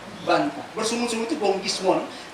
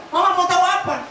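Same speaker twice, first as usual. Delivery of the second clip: mock sassy child talking back, higher; rude child; 6 semitones higher than usual. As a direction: mimic a child snapping back at mama. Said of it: "Dikasih tahu".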